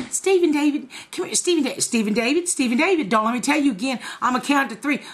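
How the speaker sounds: a hint of a pleading mother calling; a touch of a nagging mother calling out; mocking weak mother. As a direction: lightly mimic a mother who can't control her kid. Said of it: "Some of them women be like".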